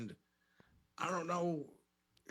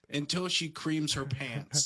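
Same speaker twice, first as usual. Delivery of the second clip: ordinary delivery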